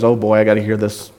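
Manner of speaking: a hint of a bored, put-upon king; annoyed sigh. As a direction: play a God fed up with complaints. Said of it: "sits on his throne and says".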